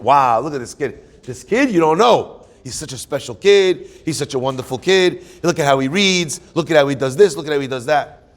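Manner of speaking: imitating impressed onlookers; mildly hammed-up admiration, punching the praise words; admiring gushing. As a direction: gush like a proud onlooker. Mimics people admiring a child.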